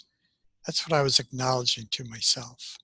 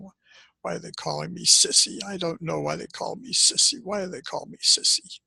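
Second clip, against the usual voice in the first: put-on higher, bewildered child's question; child asking why; 5 semitones higher than usual. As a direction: ask it like a hurt little boy who doesn't understand. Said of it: "I'm asking".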